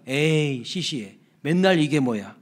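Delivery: dismissive mock grumble; acted letdown, all wonder gone; bored, unimpressed. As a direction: brush it off as the same old stuff. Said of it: "좀 지나니까".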